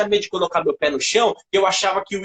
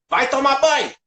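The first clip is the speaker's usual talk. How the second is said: mock calm mother; 6 semitones higher, 3 dB louder than usual. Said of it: "ela falou muito calma".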